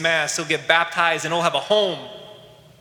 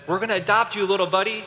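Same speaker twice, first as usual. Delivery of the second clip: higher-pitched imitation of an adoptive dad; imitated father's voice; 5 semitones higher, faster than usual. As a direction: lift the pitch as a father addressing his boy. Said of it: "it's the father's voice".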